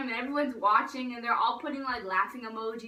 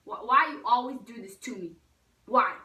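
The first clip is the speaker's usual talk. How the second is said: louder, emphatic questioning; exasperated mock plea; 7 dB louder than usual. Girl to kennelled dog, loud exasperated plea. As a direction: hammer out "why" in mock despair.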